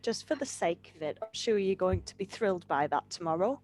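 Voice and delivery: dripping with dry sarcasm, pitched low; sarcastic. Real, not acted. Teacher teasing student about tomorrow's meeting, sarcastic. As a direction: feign confidence with an ironic, low-key delivery. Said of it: "I sense sarcasm".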